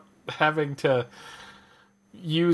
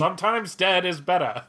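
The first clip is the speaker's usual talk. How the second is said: a hint of a creepy old announcer; spooky movie-trailer line, lightly voiced; scary announcer voice; 4 semitones higher than usual. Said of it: "That's actually really good and damn scary".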